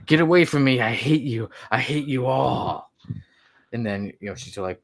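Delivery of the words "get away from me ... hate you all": put-on drunken yelling. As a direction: push her away, sloppy and drunk. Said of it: "appears drunk".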